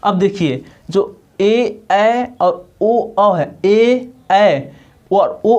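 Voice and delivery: ए and ओ drawn out very slowly; ए and ओ demonstrated. Shown as a demonstration. Teacher sounding ए and ओ slowly for the class. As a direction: stretch ए and ओ slowly. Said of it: "दो स्वरों के मेल से बनता है".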